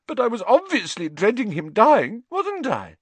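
high, distraught whine; loud start, plaintive high finish; tearful protest. A narrator's reading. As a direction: insist through your grief. Tearful Lavender defends herself.

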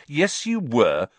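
insistent. Acted. Ron argues with Hermione.

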